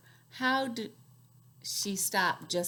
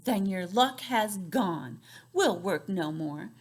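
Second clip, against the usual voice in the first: grumbling fairies; 4 dB louder, slower than usual. Acted.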